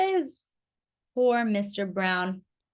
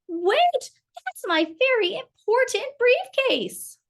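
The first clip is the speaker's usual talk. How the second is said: high, slow shout; 12 semitones higher, 3 dB louder, slower than usual. A narrator's reading. Mister Brown shouting after the school children, high slow shout. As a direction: stretch the shout out after them. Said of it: "shouted Mister Brown".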